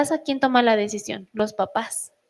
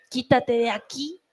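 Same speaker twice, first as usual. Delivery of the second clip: grumpy brush-off. Retold or imitated. Daughter pushing mom away at night, mock grumpy. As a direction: brush her off lazily, half-hearted. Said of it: "Ella va a decir".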